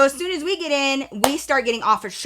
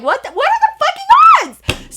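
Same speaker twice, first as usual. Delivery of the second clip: high exclaim that drops to a whisper; amazed; 8 dB louder, faster than usual. Retold or imitated. Marvelling at the coincidence, high then whispered. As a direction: go from shocked to hushed. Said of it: "I was like".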